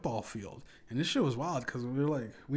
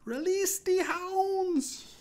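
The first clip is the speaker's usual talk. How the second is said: very high, drawn-out mock German shriek; German accent yell; 5 dB louder, much slower than usual. Storyteller imitating the rapper onstage, German accent yell. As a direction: shout it slowly in a put-on German accent. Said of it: "he did it in a German accent".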